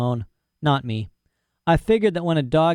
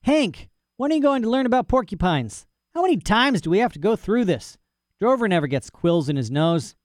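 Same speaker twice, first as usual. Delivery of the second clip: higher, weary scolding cowboy; exasperated rancher; 8 semitones higher than usual. Acted. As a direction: scold the dog, fed up. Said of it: "He shook his head and muttered".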